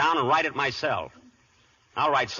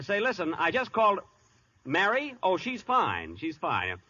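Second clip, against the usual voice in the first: higher, fawning and eager on the phone; butter up the director on the line; anxious to please the big director; 5 semitones higher than usual. Acted. Eager phone call to DeMille.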